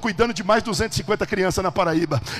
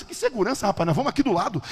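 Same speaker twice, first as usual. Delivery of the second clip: brushing off objection; 4 semitones higher than usual. Retold or imitated.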